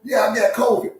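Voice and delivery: loud, high casual zebra; zebra answering. Pretend. Frank the zebra tells the lion his health news, loud and high. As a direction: shrug it off like a buddy.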